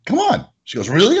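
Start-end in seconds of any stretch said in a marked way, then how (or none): 0.1-0.5 high, eager come on; excited invite. Retold or imitated. Enthusiastic invite. 0.9-1.2 thrilled. Retold or imitated. Customer thrilled.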